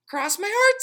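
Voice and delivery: tiny, high, loud tempting voice; pigtail voice. A narrator's reading. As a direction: lure him like a little devil. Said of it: "said the pigtail".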